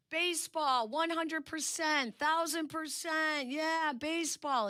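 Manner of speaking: high, excited mock cheer from the kids. Kids cheering to keep playing, high mock cheer. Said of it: "the kids all yelled".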